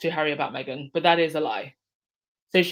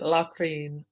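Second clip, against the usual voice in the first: mock French accent. Shown as a demonstration. Streamer obliging a chat request, light mock French accent. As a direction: say Latrine the way a Frenchman would, half joking. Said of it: "Say it in a French accent".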